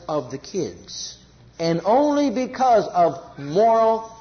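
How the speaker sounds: slow and sorrowful, weighing each word; a slow lament over failed marriages; sad, slow truth. Real, not acted. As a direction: drag it out, heavy-hearted. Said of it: "this is a sad thing to say".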